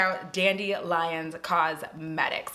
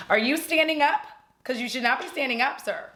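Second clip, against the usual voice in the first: scolding the dog; 5 semitones higher than usual. Real, not acted. Scolding the dog mid-filming.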